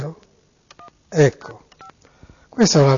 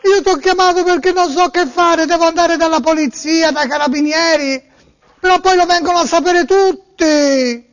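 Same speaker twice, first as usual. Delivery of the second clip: raised, whiny tearful voice; distressed victim voice; 3 semitones higher than usual. Pretend. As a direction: play a wailing robbed man. Prank call, distressed victim.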